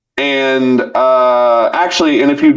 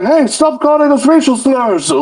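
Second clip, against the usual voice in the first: high squeaky mock complaint; high cartoon voice complaining; imitating civilians; 14 semitones higher than usual. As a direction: whine it in a silly high voice. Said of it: "They're like".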